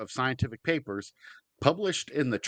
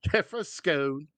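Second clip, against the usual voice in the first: mock British accent; 3 semitones higher than usual. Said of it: "That was, that was sort of Cockney".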